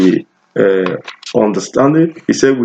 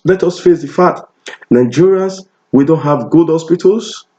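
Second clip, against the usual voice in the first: higher-pitched, insistent sermon delivery; impassioned preaching; 4 semitones higher than usual. Real, not acted. Preacher confronting Nigerians with hard facts, impassioned. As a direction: press the point home, pitched up.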